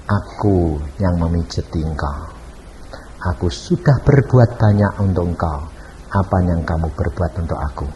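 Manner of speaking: a hint of divine calm, low; voice of Jesus. Voicing Jesus answering the woman. (suara Tuhan yang rendah dan tenang)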